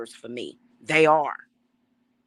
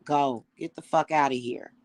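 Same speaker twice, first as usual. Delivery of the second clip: dismissive banishing; 3 dB louder than usual. Retold or imitated. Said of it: "It's like".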